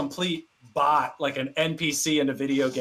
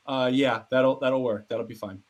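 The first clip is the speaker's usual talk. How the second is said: casual, contained phone answer; feigned composure; 3 semitones lower than usual. Retold or imitated. Back on the phone with the GM, playing it cool. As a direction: drop suddenly to cool and businesslike.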